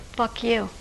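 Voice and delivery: put-on flat toddler curse, said without feeling; deadpan, no affect. A toddler at a red light, cursing with no affect at all. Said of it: "with no affect whatsoever".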